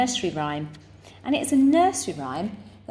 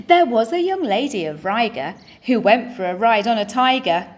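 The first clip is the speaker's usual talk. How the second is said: animated, rhythmic verse reading; limerick recital; 2 semitones higher, 5 dB louder than usual. Shown as a demonstration. Teacher reading the second limerick to the class, animated recital. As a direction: project the verse with a lively lilt.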